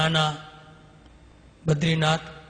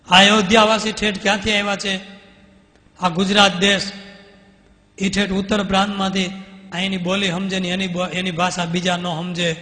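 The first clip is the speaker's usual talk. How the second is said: higher, louder protesting voice; heated self-defence; 4 semitones higher, 7 dB louder than usual. Retold or imitated. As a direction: argue back hard for the guests. Mulji defends himself to the swami. (ઊંચા અવાજે ઉશ્કેરાઈને બચાવ)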